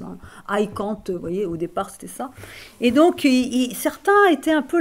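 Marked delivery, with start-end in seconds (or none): 0.5-1.0 put-on English in a thick French accent, drawn out; atrocious French accent. Recalling her accent to students, atrocious French accent. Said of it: "mon accent français atroce".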